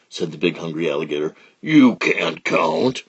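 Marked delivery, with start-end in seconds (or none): 1.6-3.0 very slow sly taunt; drawn-out sly crocodile. Acted. Big alligator.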